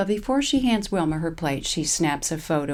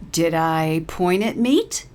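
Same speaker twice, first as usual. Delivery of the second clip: aggravated; 5 dB louder, slower than usual. Acted. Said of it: "Paralee bubbles over with aggravation".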